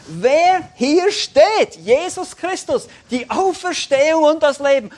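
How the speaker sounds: slow, high, loud preaching; climactic proclamation. Real, not acted. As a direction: ring out each word with full force. (mit voller Kraft verkündet, langsam und laut)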